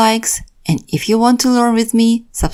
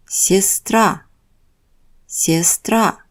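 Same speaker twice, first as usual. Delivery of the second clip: сестра with stress on -тра; stress on the last syllable; much slower than usual. Shown as a demonstration. Teacher repeats сестра for the class. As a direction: repeat сестра as ses-TRA. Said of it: "Letters marked in red indicate stressed syllables".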